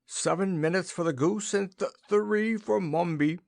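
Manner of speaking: high, tearful sniff; a king close to crying. A narrator's reading. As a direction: hold back tears while speaking. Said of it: "sniffed the king".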